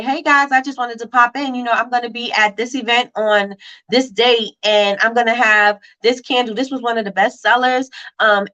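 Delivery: bright, upbeat seller opening a live; demo live pitch. Shown as a demonstration. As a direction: model a cheerful sales pitch for viewers. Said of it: "I would go live and say".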